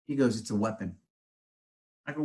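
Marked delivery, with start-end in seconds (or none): 0.4-1.0 soft, grave, almost under the breath; hushed warning. Retold or imitated. Electrician friend calling 5G towers a weapon, hushed. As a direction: say it like a dark secret.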